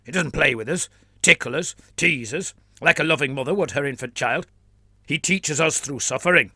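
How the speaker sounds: put-on fervent flagellant in a Trantian accent; a zealot declaring in a Trantian accent; lightly voiced Trantian accent. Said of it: "declared the man in a Trantian accent".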